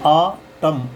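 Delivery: आ टम ending on M, no N sound; आ टम with long AA, closing on the M; silent final N. Shown as a demonstration. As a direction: say आ टम as "aa-tam". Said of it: "का sound नहीं कर रहे".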